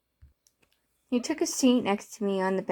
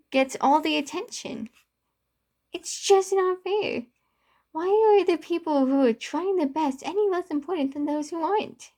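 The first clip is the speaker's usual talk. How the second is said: loud, much higher furious rant; a friend shouting in frustration at the unfair world; angry yelling; 6 semitones higher, 5 dB louder than usual. Acted. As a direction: yell it at him, voice climbing high. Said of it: "I yelled, showing him how I truly feel".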